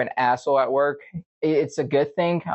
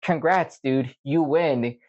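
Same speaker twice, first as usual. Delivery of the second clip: mock game-show win, pitched up on the dings; sarcastic congratulations; 4 semitones higher, slower than usual. Answering coworkers who called him stupid, sarcastic. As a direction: congratulate them with heavy sarcasm.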